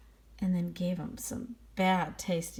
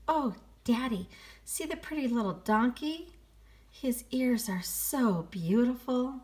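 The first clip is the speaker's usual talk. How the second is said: put-on higher delighted child voice; little girl voice; 5 semitones higher than usual. Little girl showing her father the donkey, higher child voice. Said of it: "a little girl ... said".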